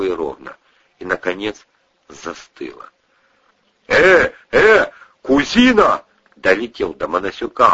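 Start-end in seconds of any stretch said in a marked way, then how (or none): 3.9-6.0 alarmed call. Acted. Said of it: "опустившийся на пару октав голос".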